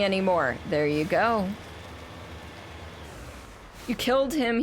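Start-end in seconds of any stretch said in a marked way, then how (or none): 3.9-4.6 put-on whiny child voice. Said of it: "in a voice that made him sound like a whiny child".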